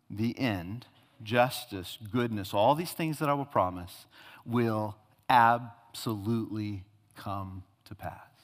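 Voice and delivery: God assuring Habakkuk it will come; solemn promise. Acted. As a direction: settle it gently but firmly.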